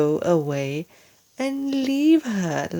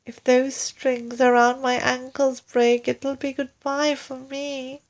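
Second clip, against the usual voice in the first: lightly voiced fear; 6 semitones higher than usual. Mrs Twit fears flying off.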